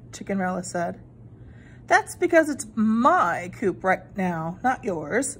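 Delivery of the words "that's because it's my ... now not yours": wicked stepmother. Acted. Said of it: "said the stepmother".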